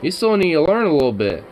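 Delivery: talking to a dog. Real, not acted. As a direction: coax the puppy gently. Praising puppy in pet voice.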